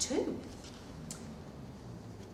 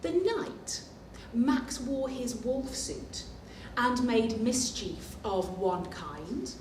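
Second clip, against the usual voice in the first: lively read-aloud storytelling voice; storybook narration. A narrator's reading. Teacher reading the picture book to children, storytelling.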